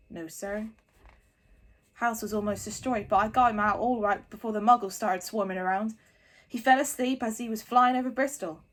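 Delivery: loud proud giant voice. A narrator's reading. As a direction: bluff booming giant reports. Hagrid reports to Dumbledore.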